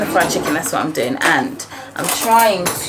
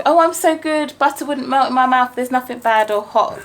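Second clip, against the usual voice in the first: higher, sugary goody-goody; mock angelic voice; 5 semitones higher than usual. Mum imitating daughter's innocent act, sugary higher voice. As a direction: play innocent like butter wouldn't melt. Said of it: "it's a saying".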